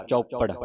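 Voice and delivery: ਚੌਪੜ with a tight double p; doubled consonant. Shown as a demonstration. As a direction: press the middle p of ਚੌਪੜ. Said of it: "ਅਧਿਕ ਲਾ ਕੇ".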